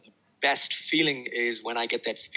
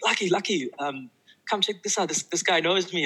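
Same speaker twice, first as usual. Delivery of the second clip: retold call across the hall, pitched higher; mock-call his wife over, higher; 6 semitones higher than usual. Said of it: "I just yelled out to her".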